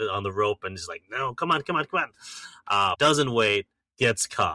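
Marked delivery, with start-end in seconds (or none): 1.1-2.1 put-on hurried impatience, pitched up. Retelling a movie scene of a man waiting on a rope: imitating impatient urging. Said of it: "getting impatient".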